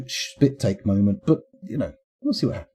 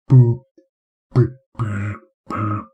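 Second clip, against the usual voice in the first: raspy muddy boops; 4 dB louder, slower than usual. Shown as a demonstration. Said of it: "The low register has a raspy, muddy timbre".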